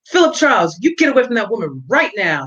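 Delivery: high, sharp, demanding call of his name; a mild jealous order. Acted. Jealous dance partner ordering Philip away, sharp and demanding. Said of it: "she demanded".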